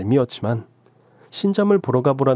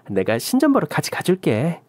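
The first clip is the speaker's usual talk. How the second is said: higher, breezy friend voice with a stress on 신점; friend's line; 5 semitones higher than usual. Acted. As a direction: promise 신점 lightly, stressing 신점. Younghee's line in the story.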